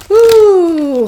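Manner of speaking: high, loud joyful whoop; excited whoop. Real, not acted. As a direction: let out a thrilled woo. Excited at a card reveal.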